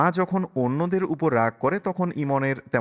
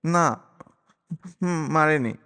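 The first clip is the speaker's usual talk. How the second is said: put-on higher, sniffling child voice; sobbing boy; 4 semitones higher, slower than usual. A narrator's reading. Boy to uncle, lightly sobbing. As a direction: sob out the denial. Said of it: "ইমন ফোঁপাতে ফোঁপাতে বলে".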